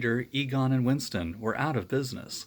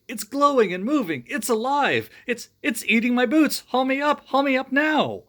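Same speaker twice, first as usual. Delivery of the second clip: high, loud panicked cries; 12 semitones higher, 7 dB louder than usual. Acted. Ray begging friends above to haul him up, panicked. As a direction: scream to be pulled up fast.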